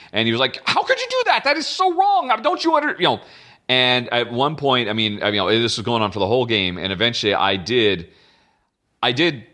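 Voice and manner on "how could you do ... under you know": high-pitched, agitated, frustrated disbelief. Retelling an experienced player's complaint at a game table, imitating frustrated agitation. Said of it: "getting very frustrated and very agitated".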